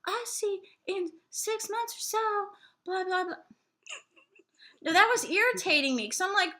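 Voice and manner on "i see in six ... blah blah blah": mock psychic. Mocking a vague psychic answer.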